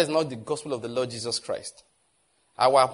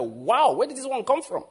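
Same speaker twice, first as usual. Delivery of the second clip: wowed classmates; 3 semitones higher than usual. Retold or imitated. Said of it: "they are wowing like".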